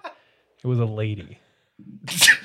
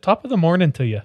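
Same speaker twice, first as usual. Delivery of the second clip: Irish accent; 5 semitones higher, 4 dB louder, faster than usual. Shown as a demonstration. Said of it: "if I did an Irish accent".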